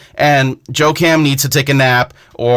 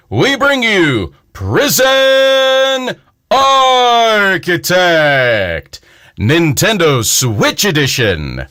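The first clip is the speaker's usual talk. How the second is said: big voice guy. Acted. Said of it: "time for the big voice guy to come in".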